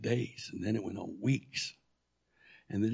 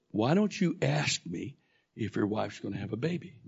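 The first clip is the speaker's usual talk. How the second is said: voice of God. Retold or imitated. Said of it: "He said".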